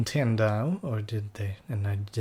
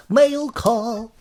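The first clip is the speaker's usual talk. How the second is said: calling out; 13 semitones higher, 10 dB louder than usual. Acted. Game character calls out.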